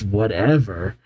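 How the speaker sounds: indignant echo. Acted. Crystal throws the word back.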